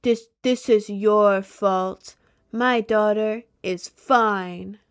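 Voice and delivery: a hint of a cold mother, slow and deliberate; accusing mom. Mom defending her daughter, imitated slow and lightly. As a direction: lay it on slowly, mildly mocking her. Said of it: "And then was like".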